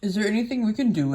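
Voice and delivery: lightly voiced big mouse. A narrator's reading. Big mouse offering thanks to rescuer, lightly voiced. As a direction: give the question a slight character voice. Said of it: "one of the biggest mice spoke".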